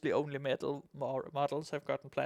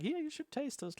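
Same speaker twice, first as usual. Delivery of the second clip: ratling voice; 11 semitones higher, 6 dB quieter than usual. Retold or imitated. Voicing a ratling offering sausage.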